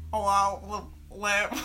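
lightly voiced teen boy's greeting; Steven impression. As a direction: mumble it like the boyfriend. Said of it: "please do your best impression of him".

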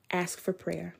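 soft unvoiced whisper; a gentle whispered nudge; whispered prompt. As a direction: whisper it like an inner voice. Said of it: "the Holy Spirit was like".

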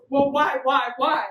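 retold alarmed questioning. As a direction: blurt it out as a baffled Daniel. Daniel told he is to die.

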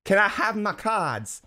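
high, loud, slow begging in a put-on old-English accent; hammed-up plea for cards, high and drawn out; pleading beggar accent. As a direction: beg like a starving orphan in a mock old-English accent. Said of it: "I don't know what that accent was".

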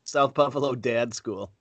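South Buffalo Dad School said slowly, each word spaced; slow, clear repeat. Shown as a demonstration. Repeating the name slowly because the other missed it. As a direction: spell it out slowly for him. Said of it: "say that again?".

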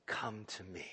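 quiet, falling "Come to me"; tender quiet call; soft invitation. Real, not acted. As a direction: say "Come to me" softly, almost pleading.

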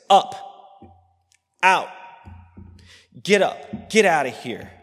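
shouted, sharp commands to leave; furious order. Acted. Brother shouting at his sister to get out. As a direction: bark him out of the room. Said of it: "it's just two words in Hebrew".

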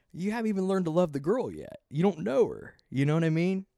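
high-pitched, exasperated outburst; indignant rant. Real, not acted. Ranting at a show contestant about love, indignant. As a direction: voice jumps up in loud disbelief.

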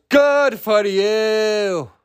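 hammed-up imitation of an angry star; Christian Bale. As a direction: hold each word long in a put-on accent. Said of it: "and then Christian Bale goes".

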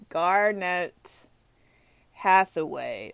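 Garnett Hathaway drawn out slowly, word by word; slow, tentative attempt at Garnett Hathaway; unsure name pronunciation. Real, not acted. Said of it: "I'm not saying his name right".

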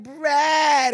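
high, loud mock soap wail; hammed-up plea to a husband; Alex, melodramatic wife. Cheating wife to her husband, hammed-up high protest. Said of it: "dialogue between Alex and her husband".

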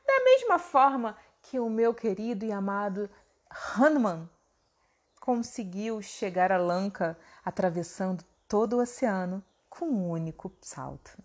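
falando do Hanuman com carinho, mais suave; derreta-se ao falar do amado Hanuman; voz doce. Acted. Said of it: "sua voz ficou doce, ficou pacífica". (Bima fala de Hanuman com voz doce e pacífica)

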